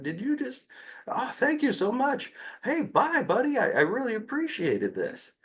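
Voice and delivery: high, gushing delight; overjoyed praise to a child; thrilled. Retold or imitated. Thrilled reaction to child saying name.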